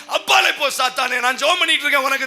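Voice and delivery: mock outburst. Mock rebuke to husband.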